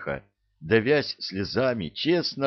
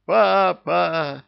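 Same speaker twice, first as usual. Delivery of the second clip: much higher, louder wail falling at the end; wailing cry; 10 semitones higher, 6 dB louder than usual. A narrator's reading. Lucifer hugging the captain, wailing out loud. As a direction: cry out with overwhelming joy. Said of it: "завопил он".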